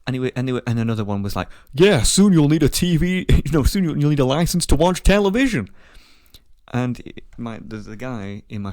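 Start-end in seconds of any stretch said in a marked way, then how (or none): 1.7-5.7 mocking joke. Mocking quote from an American.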